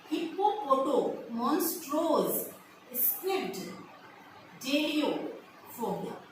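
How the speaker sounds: हिप्पोपोटो, मॉन्स्ट्रोस, स्क्विड, डेलियोफोबिया built up slowly, part by part; teacher slowly building up the long word for students; slow chunked pronunciation. Shown as a demonstration. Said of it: "फिर से बोल रही हूँ".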